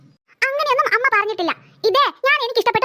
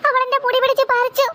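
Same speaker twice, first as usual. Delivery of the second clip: tearful protest. Acted. Child tells mother sister is lying, tearful. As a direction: insist through mild crying.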